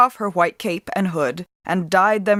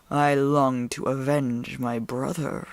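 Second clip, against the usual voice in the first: low wolf growl; 5 semitones lower, 4 dB quieter, slower than usual. A narrator's reading. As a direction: brush off thanks, wolfishly. Wolf continues.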